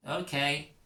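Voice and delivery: talking through a mouthful; mouth full. Acted. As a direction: say it round a bite of cake. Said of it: "you say with your mouth full".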